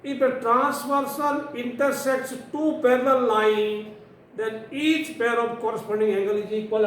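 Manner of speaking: slow, measured textbook reading. Real, not acted. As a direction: read the statement out slowly. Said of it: "मैं धीरे धीरे पढ़ रहा हूँ".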